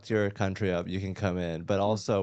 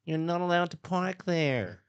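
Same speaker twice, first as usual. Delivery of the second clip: high, nasal-free New York Jewish put-on; New York Jewish accent; 9 semitones higher, slower than usual. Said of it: "Like the New York Jewish one".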